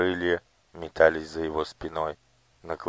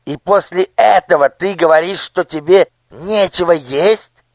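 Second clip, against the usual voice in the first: high, loud, wry squeak; sneering minister; 12 semitones higher, 15 dB louder than usual. A narrator's reading. Nushrok sneers at the lying people. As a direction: curl your lip and squeal.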